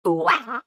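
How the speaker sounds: high-pitched mock villain whoop; evil cackle that slips upward; botched evil laugh. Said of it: "Give us your most evil voice".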